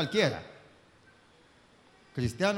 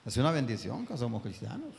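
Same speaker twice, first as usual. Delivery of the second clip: softer, gentle restatement; quiet repeat; 5 semitones lower, 6 dB quieter than usual. Acted. Preacher repeating to the congregation, softly. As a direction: say it again under your breath. Same sentence said twice.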